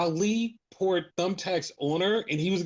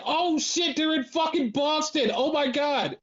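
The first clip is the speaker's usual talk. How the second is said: higher, laughing through the words; half-laughing shouted surprise; laughing realisation; 7 semitones higher than usual. Retold or imitated. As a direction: laugh as it finally clicks. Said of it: "And I was like".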